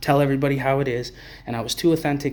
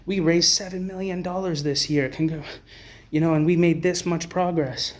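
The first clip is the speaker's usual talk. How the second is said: higher, breezy fundraiser voice; a hint of a smug executive; mock charity spokesman; 4 semitones higher than usual. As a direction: parody a smug nonprofit boss bragging about donations. Mocking the organizations' fundraising talk.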